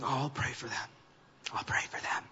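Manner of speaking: hushed, low mock-pious murmur; quietly put-on sympathy; mock pious concern. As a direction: softly feign concern, voice dropped. Acted insincere concern for sinners.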